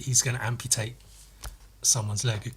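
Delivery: ordinary talk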